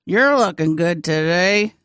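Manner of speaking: ventriloquist style, lips still; talking with mouth closed. Shown as a demonstration. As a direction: keep the mouth shut while speaking. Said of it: "you can say it without moving your mouth".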